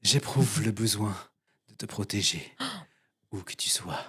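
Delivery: slow, soft, pausing between words; slow motion. Retold or imitated. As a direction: drag each word out dramatically. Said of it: "je vais mettre un temps d'arrêt entre chaque mot".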